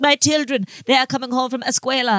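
a hammed-up fake Spanish accent on "escuela"; mock Spanish accent. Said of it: "But instead she's like".

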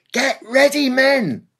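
rallying shout. A narrator's reading. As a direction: rouse the men before the charge. Officer before the attack.

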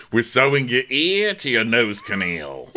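laughing while voicing the doctor; laughing through a mock doctor line. Host parodying the doctor, laughing. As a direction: break into giggles on the line. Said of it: "parody doctor".

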